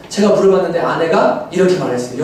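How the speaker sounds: ordinary talk, nothing marked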